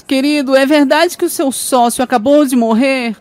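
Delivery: high, slow sugary wife; a wife sweetly fishing for good news. Retold or imitated. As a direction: coo it like a scheming wife. Wife voiced in joke.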